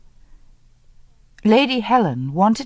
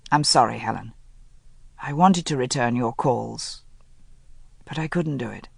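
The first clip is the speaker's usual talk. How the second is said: lower, subdued confession; contrite Linley; 4 semitones lower than usual. Acted. Linley confessing cowardice to Helen, lower and subdued.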